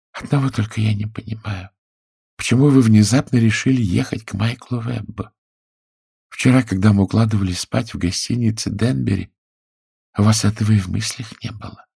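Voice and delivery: wife's voice. A narrator's reading. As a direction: press your husband as the wife. Wife questions her husband.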